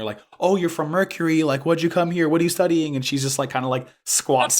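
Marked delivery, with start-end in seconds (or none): 0.4-3.0 higher-pitched volley of mock questions; imitating curious girls. Girls crowd round asking the new student, imitated curiosity. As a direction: pipe up like inquisitive schoolmates, pitched high. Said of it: "like, start asking her".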